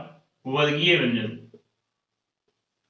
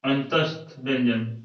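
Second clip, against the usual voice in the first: slow clear term; 4 semitones lower, slower than usual. Shown as a demonstration. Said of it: "teacher names the term slowly".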